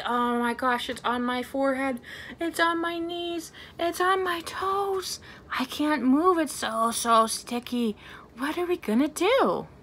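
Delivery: playful hammed-up alarm; mock dismay. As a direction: pretend to be stuck for the kids. Pretend panic, stuck all over.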